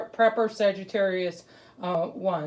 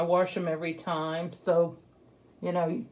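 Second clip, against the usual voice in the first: muffled behind fabric mask; speaking while masked; through a cloth mask. Real, not acted. Seen 4: Cloth mask held over, then worn on, mouth for about 0.2–3.6 s.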